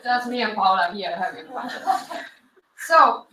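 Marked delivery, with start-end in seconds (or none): 0.0-1.7 laughing. Real, not acted. Laughing at own joke on stream.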